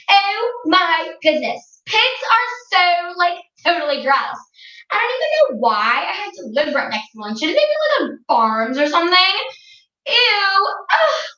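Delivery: lightly voiced spoiled girl, grossed out; snooty teen Regina. Regina's snooty opinion of pigs.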